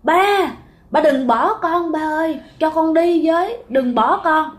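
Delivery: put-on high, wailing child's plea for her father; crying out in sleep. Child crying out to her dead father in her sleep, high wailing. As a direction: beg him not to leave, voice pitched high and crying. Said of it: "bạn la, bạn khóc".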